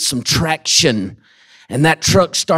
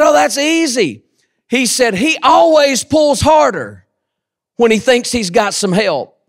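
farmer's voice; 6 semitones higher than usual. Retold or imitated. Farmer's punchline in story.

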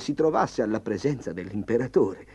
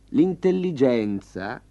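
condescending; 2 semitones higher, 4 dB louder, slower than usual. Acted. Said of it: "spiegò Bufalo con degnazione".

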